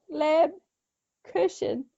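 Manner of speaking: slow Lebkuchen with an SH. Shown as a demonstration. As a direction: sound out Lebkuchen slowly as "leb-koo-shen". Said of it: "you're pronouncing as an S H".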